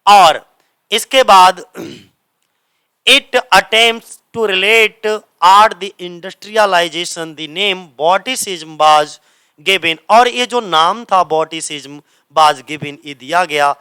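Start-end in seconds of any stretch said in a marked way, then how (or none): 3.1-10.0 reads the English line out word by word; slow dictation reading. Shown as a demonstration. Teacher to exam students, slow careful read-aloud. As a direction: spell it out slowly for students copying it down.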